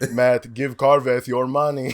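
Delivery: slow, put-on character shout; loud, drawn-out mock plea for money; Carveth. AI scammer begging Matt, hammed-up character voice. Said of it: "They make an A I Carveth".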